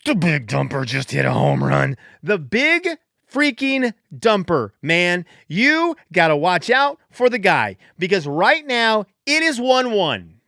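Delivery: loud, high hype-man call; real excited celebration. Real, not acted. Podcaster hyping the Big Dumper's homer, excited. Celebrating home run live.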